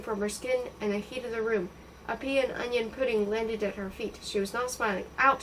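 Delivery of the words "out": sharp loud command; shout. Acted. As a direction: bark them out of the room. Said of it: "she shouted".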